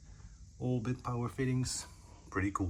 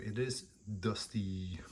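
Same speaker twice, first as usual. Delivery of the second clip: whispered aside; slower than usual. Real, not acted. Finds dust under the computer.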